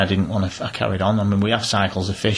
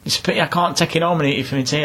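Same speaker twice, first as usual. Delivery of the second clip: old man voiced; 7 semitones higher, faster than usual.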